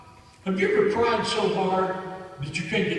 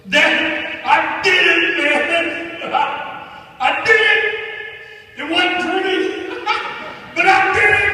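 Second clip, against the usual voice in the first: much higher, much louder joyful yelling, with laughs breaking in; retold cracking scream; 8 semitones higher, 9 dB louder than usual. Son on the phone shouting to his dad that he made it, in a cracking, overjoyed yell. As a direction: shout it like a son who just made it through. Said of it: "he screamed in that cracking voice".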